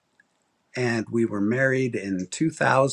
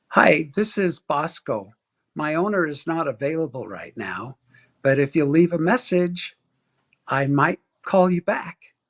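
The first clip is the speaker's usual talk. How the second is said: dog's answering machine voice; 4 semitones higher than usual. Retold or imitated. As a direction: play the dog recording its own message.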